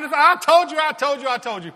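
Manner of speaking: fading from loud nag to plain; nagging. Retold or imitated. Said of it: "she starts picking at him".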